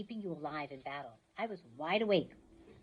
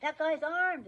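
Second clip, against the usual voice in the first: alarmed cop; 9 semitones higher, 4 dB louder, slower than usual. Acted.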